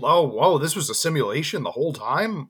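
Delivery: singsong fake astonishment; sarcastic wonder in rolling, up-and-down tune; mock amazement. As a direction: play at being fooled by the twist. Mocking the film's fake surprise.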